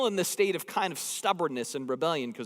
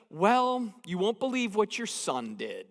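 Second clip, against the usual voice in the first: mild wife's tone; 4 semitones higher than usual. Retold or imitated. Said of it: "I can hear the tone in her voice".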